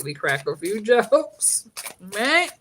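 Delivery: slowed, breaking into a laugh mid-line; laughing through it. Shown as a demonstration. Comedian to her viewers, laughing as she says it. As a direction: let the laugh spill out before jokes.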